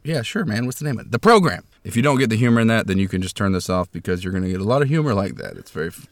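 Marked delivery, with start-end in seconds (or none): 0.0-1.1 guest reply. Retold or imitated. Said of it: "I said". 1.1-1.6 loud, high punchline reveal. Acted. Host delivering his joke punchline, loud and high.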